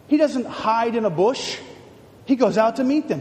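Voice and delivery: ordinary talk, nothing marked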